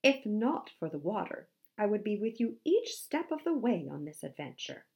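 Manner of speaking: grand, gallant pledge; pompous storybook hero making promises; Handsome the musk ox. Acted. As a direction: declare it with heroic flourish.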